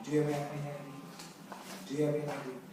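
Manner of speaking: softly, a touch of "do you even know"; understated irritated question; mild exasperation. Shown as a demonstration. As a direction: lightly needle the listener. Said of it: "이런 느낌으로 얘기하는".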